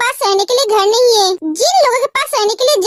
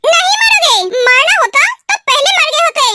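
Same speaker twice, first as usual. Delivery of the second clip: angry retort; 2 semitones higher than usual. Acted. Girlfriend mocks his plea.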